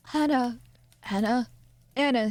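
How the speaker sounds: father shouts for the maid; father calling. Acted. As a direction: summon the maid across the flat. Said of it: "his father called into the kitchen".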